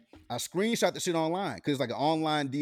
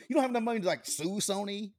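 higher, cracking half-shout of mock despair; mock crying; 4 semitones higher than usual. Real, not acted. Teasing a friend who can't afford to sue, cracking mock wail. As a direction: wail it like you're about to cry, half joking.

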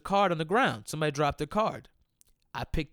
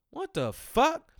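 much higher, slow, stunned mock outrage; taken aback; 13 semitones higher, 3 dB louder, slower than usual. Shocked friends reacting to the man's outburst, stunned. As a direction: drag it out in disbelief. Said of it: "we were taken aback".

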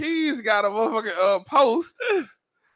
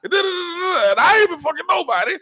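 going off; 7 semitones higher than usual. Retold or imitated. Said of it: "went off on me".

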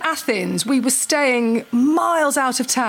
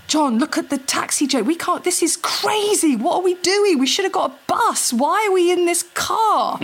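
anxious; 5 semitones higher than usual. Retold or imitated. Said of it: "I was getting slightly anxious".

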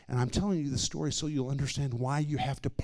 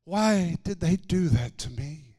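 slow, higher-pitched hurt question; anguished exclamation; 5 semitones higher, slower than usual. Retold or imitated. Sick woman reliving old hurts, exclaiming in anguish. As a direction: imitate a wounded woman's plaint.

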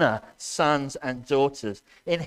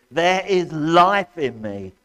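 slow proclamation; 5 dB louder, slower than usual. Acted. Quoting God's final word.

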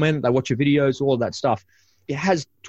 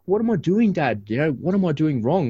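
mock daughter; 6 semitones higher than usual. Daughter's worried question retold.

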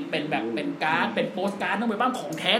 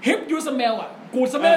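higher, slow, stretched smell with a rolled tongue; The Rock catchphrase; 5 semitones higher, 3 dB louder, much slower than usual. Retold or imitated. Podcaster reenacting his endless rolled smell, high and slow. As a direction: hold the smell on and on. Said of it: "กู smell เกือบนาทีไง".

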